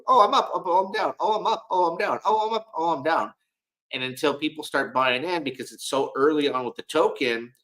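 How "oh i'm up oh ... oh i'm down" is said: high, cartoonish sing-song squeal; mock volatile price voice. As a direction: play a bouncing price, high-pitched and comic. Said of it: "volatility is gonna be there".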